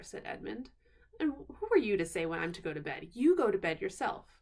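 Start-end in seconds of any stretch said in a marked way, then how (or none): 1.2-4.4 sulky retort. Acted. Edmund quarrels with Susan.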